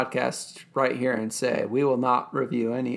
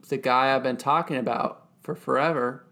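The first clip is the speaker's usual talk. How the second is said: mock announcer. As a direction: present a star with deliberate pomp. Mock grand introduction of an actor.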